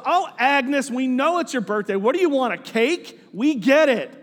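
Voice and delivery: mildly exasperated friendly teasing. Retold or imitated. Friend teasing Agnes about her birthday hints, playful jab. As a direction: rib a friend with playful impatience. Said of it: "they're kinda teasing each other".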